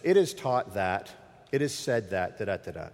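mock recitation, trailing into filler; scribes' teaching style. Scribes teaching from others' sayings, droning mildly. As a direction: imitate a scribe citing tradition by rote. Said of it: "they would teach like this".

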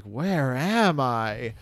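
lightly mocking imitation, drawn out very slowly; a hint of an actor's line read, stretched word by word; Chris Pratt. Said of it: "it's just Chris Pratt being like".

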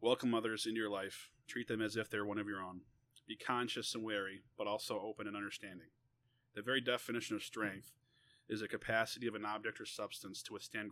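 measured, deliberate read-aloud; story reading. A narrator's reading. Author reading an essay about defending a brother, measured narration. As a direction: read it out in phrases with pauses.

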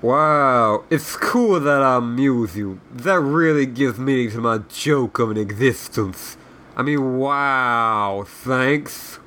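dry mock gratitude, lightly voiced officer; sarcastic Southern general. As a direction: give sarcastic thanks, stretching the last "wow". The surly general answers sarcastically.

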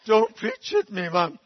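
loud, slow whining protest; a drenched brother begs his mother; pleading son. Retold or imitated. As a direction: brother under the tap whines at mother. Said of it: "he is going".

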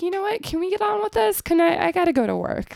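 high-pitched impatient pleading; exasperated. Retold or imitated. Commuter to police blocking the street, exasperated.

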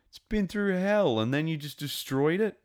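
rising outrage, pitch way up; disbelieving complaint; exasperated. Real, not acted. Frustrated rant at show.

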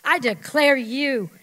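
slow, loud, solemn pronouncement; judge's verdict. Pretend. A judge declaring someone innocent, solemn and loud. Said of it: "That's what a judge does".

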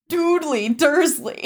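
slow, high "Doodly", with an "oo" vowel; teasing mispronunciation. Retold or imitated. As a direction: imitate classmates drawing out "Doodly Dursley". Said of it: "were like".

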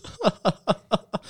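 high staccato laughter. Real, not acted. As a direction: burst into a high, bubbling laugh. Laughs at own joke.

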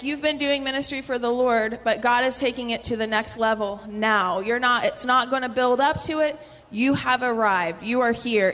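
loud, emphatic proclaiming; prophetic declaration. Retold or imitated. Woman prophesying over her ministry, loud fervent declaration. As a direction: declare it with rising fervour. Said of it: "She was like".

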